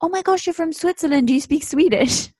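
imitated high-pitched LA gushing; gushing amazement. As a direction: mimic a wide-eyed, excitable stranger. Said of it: "everyone's like".

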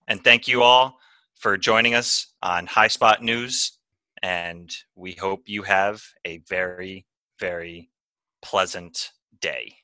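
slow, mock-formal news sign-off; anchor sign-off. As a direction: draw out the goodbye like a TV anchor. Anchor signs off the segment.

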